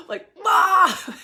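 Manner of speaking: a loud, high cry of frustration; frustrated groan. Real, not acted. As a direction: let out an exasperated wail. Recalling her awful morning mood.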